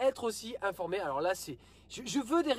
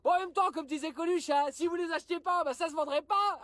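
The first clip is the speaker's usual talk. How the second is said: higher-pitched parody of retailers' excuses; lightly hammed-up spokesman, pitched up; mock retailer spokesman; 5 semitones higher than usual. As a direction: imitate a retailer explaining things to the public. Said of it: "alors qu'est-ce qu'ils ont dit?".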